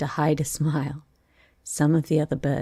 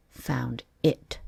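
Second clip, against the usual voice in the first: cross; 3 semitones lower than usual. Acted. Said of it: "the mouse replied rather crossly".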